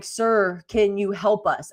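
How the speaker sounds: eerie, mildly monotone request; weird monotone. Retold or imitated. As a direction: imitate an uncanny child asking evenly for help. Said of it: "Again, weird monotone, not normal".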